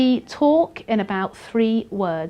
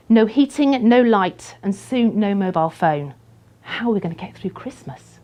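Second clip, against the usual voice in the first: louder, gripping story opener; dramatic opening; 6 dB louder than usual. Shown as a demonstration. Teacher showing a strong opening, dramatic and loud. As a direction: grab the listener from the first word. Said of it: "imagine if I started my story like this instead".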